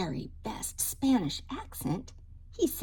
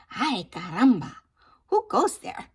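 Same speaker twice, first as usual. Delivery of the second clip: louder, bold challenge into the dust; calling out; 8 dB louder than usual. Acted. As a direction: call out like a brave little hero. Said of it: "asked Skippy John Jones".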